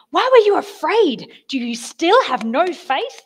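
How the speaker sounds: loud, high scolding of frightened followers; angry rebuke. Acted. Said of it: "Like that angry".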